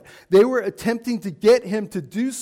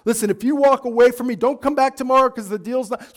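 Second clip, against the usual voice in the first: lightly acted pushy sales pitch, getting faster; a hint of a high-pressure salesman, raised pitch; car salesman; 3 semitones higher than usual. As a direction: rush the customer into deciding. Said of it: "the car salesman".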